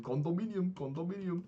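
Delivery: high, sing-out imitation of a pestering coworker; mock him calling it out in a high voice; teasing coworker. Coworker following him round the restaurant, high-pitched teasing. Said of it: "he's following me around the restaurant saying".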